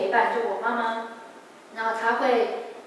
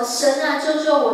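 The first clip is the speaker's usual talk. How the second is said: louder, pleading cry to God; retold loud desperate prayer; 3 semitones higher, 5 dB louder than usual. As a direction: call for rescue with full voice. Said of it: "大声呼喊".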